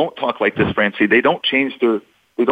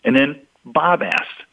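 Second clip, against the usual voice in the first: softer; 3 semitones higher, slower than usual. Shown as a demonstration. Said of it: "which is nicer, softer".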